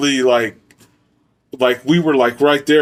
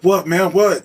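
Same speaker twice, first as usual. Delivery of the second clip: mock alarmed question, pitched up; a jumpy, half-scared what; imitating scared buddy; 6 semitones higher, slower than usual. Buddy still shaken, mock nervous higher what. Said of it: "man, he got scared".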